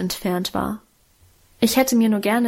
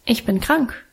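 self-assured. A narrator's reading. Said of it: "entgegnete ich noch selbstbewusster".

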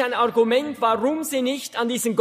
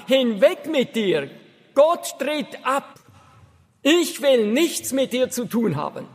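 mock yell. Ranting man on a crate defying God, mild mock shout. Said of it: "hat mächtig geschrien".

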